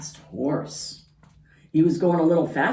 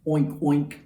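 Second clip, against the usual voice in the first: pig oink. Acted. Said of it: "the pig said".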